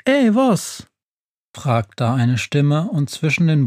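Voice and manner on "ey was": high-pitched, challenging witch. A narrator's reading. Witch interrupted in her singing, challenging in a high voice. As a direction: pipe up high as an annoyed witch.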